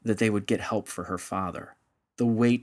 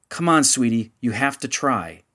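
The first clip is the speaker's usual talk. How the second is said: louder, pressing urgency; more urgently; 2 semitones higher, 5 dB louder than usual. Acted. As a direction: push her to hurry, urgent. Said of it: "And then more urgently".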